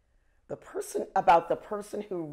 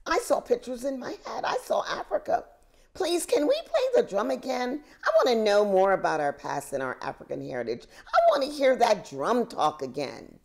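put-on a light, higher, fast child voice, eager to hear more; eager little boy; 6 semitones higher, 3 dB louder, faster than usual. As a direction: play the excited grandson, quick and bright.

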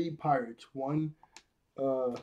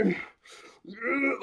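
mock grunts; 8 semitones higher than usual. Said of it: "why you gotta grunt".

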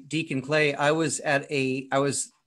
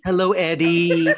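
doting pet greeting; 4 semitones higher, 8 dB louder than usual. Real, not acted. Greeting a dog on the call.

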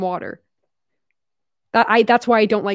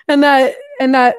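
Australian accent attempt; 3 semitones higher, 5 dB louder than usual. Shown as a demonstration. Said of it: "can't even do this accent anymore".

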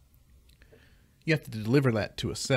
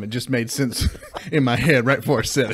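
laughing; 5 dB louder than usual. Retold or imitated. Laughing while quoting dad.

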